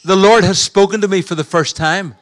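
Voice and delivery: a lightly voiced, eager little boy; a small boy proudly telling his big news; child's voice. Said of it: "He said". (voix d'enfant légère et enthousiaste)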